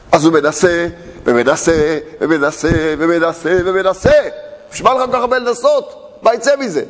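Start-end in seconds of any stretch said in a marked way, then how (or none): 4.7-6.8 higher, sneering voice of the tempter; mocking inner voice. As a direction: needle him, voice raised and scornful. Mocking voice of discouragement. (קול לועג גבוה של היצר)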